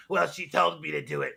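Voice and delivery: mocking imitation with dopey laughs between phrases; mock excuse-making. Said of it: "to be like".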